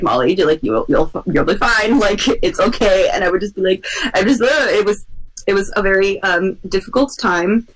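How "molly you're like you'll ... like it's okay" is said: reassuring friend. Retold or imitated.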